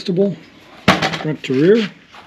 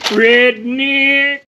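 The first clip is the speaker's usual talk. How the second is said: "Redneck." drawled higher in a hammed-up Southern accent; teasing Southern redneck accent on "Redneck."; mock redneck accent; 5 semitones higher than usual. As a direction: say "Redneck." like a caricature hillbilly. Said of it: "you got a redneck".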